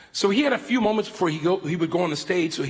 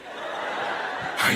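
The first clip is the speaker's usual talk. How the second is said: retold laugh; 4 dB quieter than usual. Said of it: "Reagan starts laughing".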